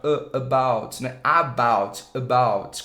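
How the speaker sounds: about starting with a short neutral a; schwa about. Shown as a demonstration. Teacher modelling about with the schwa. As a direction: open about with a lazy a. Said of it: "com esse som relaxado".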